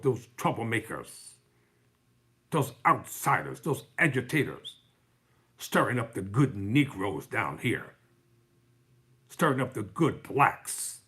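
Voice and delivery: imitating a civil rights era racist, slowly; mocking old Southern racists. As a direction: draw it out with contempt, lightly voiced. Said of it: "That's the way they talked".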